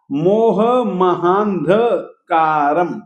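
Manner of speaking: मोह महांध कारम with anusvara sounded; measured chant; careful recitation. Shown as a demonstration. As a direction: slowly read मोह महांधकारम. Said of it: "ये जो अनुस्वार है".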